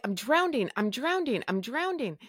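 re-enacting desperate alarm; retold crying panic. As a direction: act out a panicked cry without real tears. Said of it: "and I'm crying".

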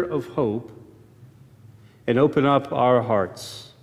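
measured prayer with long pauses; opening prayer. Real, not acted. Preacher asking God to open ears and hearts, prayerful.

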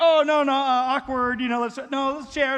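panicked parent hushing a toy grab; flustered parent. Retold or imitated. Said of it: "the parents are, like, scrambling".

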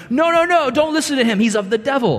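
hammed-up panic against Jesus; alarmed Pharisee. Town pastors warn people.

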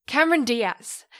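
Cameron loud and high, blurted the moment it comes back; triumphant blurt. Real, not acted. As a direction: shout the name out in relief.

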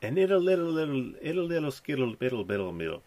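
nonsense syllables in a mock Trump voice; jokey Trump gibberish; Trump babble mock. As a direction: mumble it like a rambling Trump. Mocking Trump's rambling sound.

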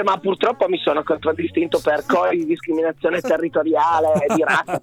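hoarse voice giving out from chanting; worn-out hoarse voice. Real, not acted. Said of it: "chiedo scusa per la voce".

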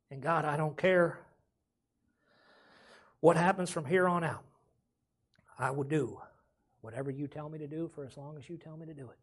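a pastor showing the church how to pray sorry; demonstrated prayer. Shown as a demonstration. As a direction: model a humble cry out to God. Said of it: "That's crying out to the Lord".

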